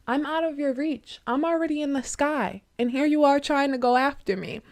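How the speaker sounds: mocking nightingale. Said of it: "laughing at him".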